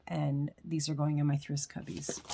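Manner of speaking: breathy unvoiced whisper. Real, not acted. Whispering to viewers about her Thriss cubby. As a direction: whisper it like a secret to the camera.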